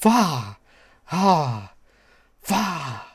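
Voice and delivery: lost voice, cracking; hoarse croak after shouting. Real, not acted. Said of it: "I lost my voice".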